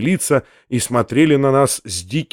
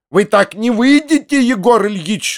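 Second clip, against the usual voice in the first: higher, blocking his way; angry chatter; 6 semitones higher than usual. A narrator's reading. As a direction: rattle out the threat. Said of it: "затрещала она снова". (трещит сердито, преграждая путь)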